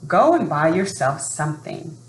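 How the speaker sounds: lively read-aloud storytelling voice; story narration. A narrator's reading. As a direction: read it like a children's picture book. Reading a picture book aloud.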